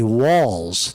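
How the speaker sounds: "Walz" rhymes with "calls", not "waltz"; name pronunciation. Shown as a demonstration. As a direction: say "Walz" like "walls", with no t sound. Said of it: "It's not Waltz".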